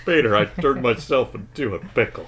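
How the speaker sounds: lightly voiced cartoon character; a hint of a goofy cartoon voice; cartoon impression. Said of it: "You do a good impression".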